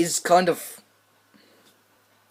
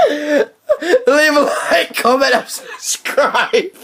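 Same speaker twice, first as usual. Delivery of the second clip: slow, laughing outro; laughing through the words; 3 semitones higher, slower than usual. Real, not acted.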